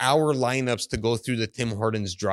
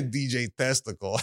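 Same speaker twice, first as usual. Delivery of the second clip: laughing pun. Real, not acted. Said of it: "did I say test".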